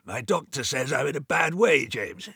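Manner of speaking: put-on wheezy sick old man panting to his brother. A narrator's reading. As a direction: push the words out between pants. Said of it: "He panted".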